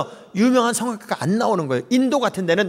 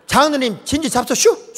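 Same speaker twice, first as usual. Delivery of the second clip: Chungcheong dialect; 8 semitones higher than usual. Retold or imitated. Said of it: "충청도 말은".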